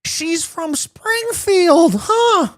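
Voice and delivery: very high, very slow strained cartoon voice; a badly faked Marge, high and slow; terrible Marge. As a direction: stretch it out in a squeaky falsetto. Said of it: "That is a terrible Marge".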